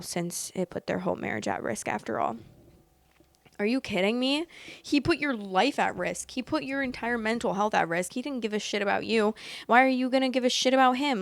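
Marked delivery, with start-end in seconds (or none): 3.6-11.2 outraged. Real, not acted. Outraged reaction to the story.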